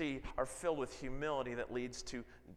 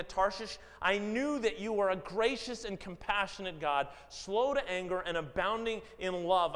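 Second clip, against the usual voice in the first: aggrieved prayer; 4 semitones higher, 4 dB louder than usual. Acted. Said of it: "he became angry".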